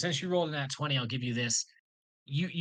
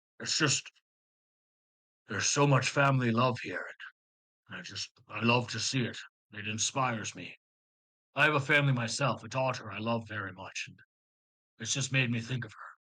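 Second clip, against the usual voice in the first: tearful voice, speaking through tears; 3 semitones lower than usual. Voicing a character with tears running down his face: tearful character voice. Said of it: "there's tears running down Griff's face".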